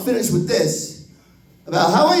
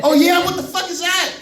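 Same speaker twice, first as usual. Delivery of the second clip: laughing; 10 semitones higher than usual. Retold or imitated. Grandpa laughing at cop.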